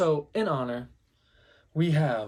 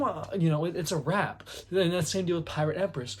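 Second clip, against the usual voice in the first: usual speaking voice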